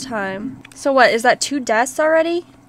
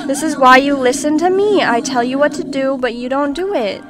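playful scolding; 4 dB louder than usual. Pretend. Scolding own sim after failure.

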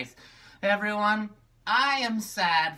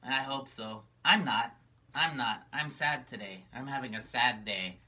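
a lightly voiced gloomy puppet, a bit lower; sad puppet Magenta; 4 semitones lower than usual. Magenta greets the kids, moping and a bit low.

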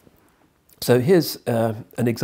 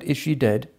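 fearful question; 6 semitones higher, 4 dB louder than usual. Acted. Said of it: "I cried".

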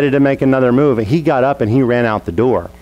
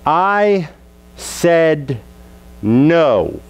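defiant no; 3 semitones higher, much slower than usual. Retold or imitated. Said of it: "he does this".

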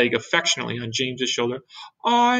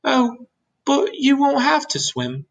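put-on slow, high-pitched boy's reassurance; calm reassurance; 13 semitones higher, 3 dB louder, slower than usual. A narrator's reading. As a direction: reassure them unhurriedly as James. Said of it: "said James calmly".

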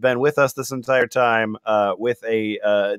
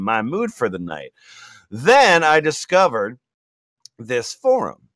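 Latina mom voice. Acted. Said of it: "more Latina, uh, Republican mom".

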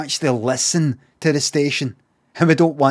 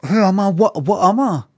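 hammed-up, higher-pitched questioning; existential panic; 4 semitones higher, faster than usual. Streamer doubting he is human, hammed-up existential panic. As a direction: plead to know what you are.

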